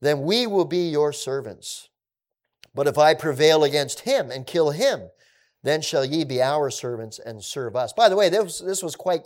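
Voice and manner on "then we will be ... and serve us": giant's ultimatum. Retold or imitated. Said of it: "here's the ultimatum".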